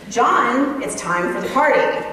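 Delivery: firmer parent call, the name punched; second-level parenting voice. Acted. Parent calling son a second time, firmer parenting voice. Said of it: "in your second level parenting voice".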